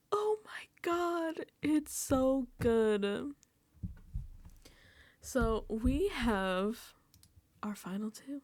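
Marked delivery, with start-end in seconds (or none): 0.1-3.3 awed whisper. Real, not acted. Awed reaction to good TV.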